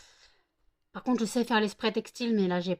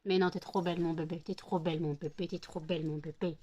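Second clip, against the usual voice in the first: tender reassurance; 4 semitones lower than usual. Real, not acted. Making up after teasing.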